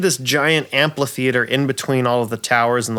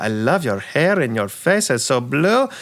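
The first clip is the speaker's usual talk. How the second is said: campy drag queen; 4 semitones higher than usual. Acted. NPC keeps talking.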